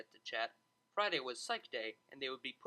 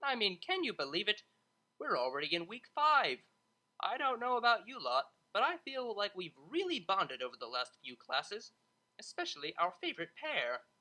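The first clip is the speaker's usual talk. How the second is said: energetic teasing; 4 semitones higher, 4 dB louder than usual. Acted. Energetic tutor teasing the class.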